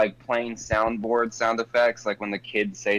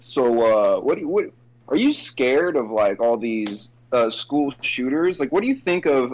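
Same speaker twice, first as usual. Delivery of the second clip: imitating Jimmer questioning kids. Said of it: "was being like".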